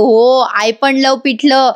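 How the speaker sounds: slow, drawn-out forced enthusiasm; eager copycat. Retold or imitated. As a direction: drag it out as if faking delight. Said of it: "जीवा लगेच म्हणायला लागतो".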